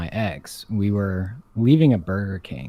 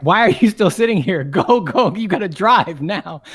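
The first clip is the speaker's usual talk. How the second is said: raised, louder getaway urging; urgent command; 7 semitones higher, 4 dB louder than usual. Retold or imitated. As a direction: urge the driver to get moving now. Urging partner to drive away.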